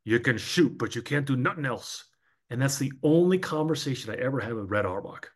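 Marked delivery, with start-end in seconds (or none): 0.0-2.0 low gravel vigilante growl; rough old coach rasp, lower; gravelly voice. Retold or imitated. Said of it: "in that gravelly voice of his".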